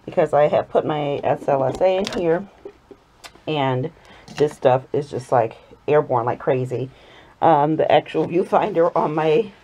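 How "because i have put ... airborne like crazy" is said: speaking through a face mask; muffled, mask over mouth. Real, not acted. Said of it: "if I sound a little muffled".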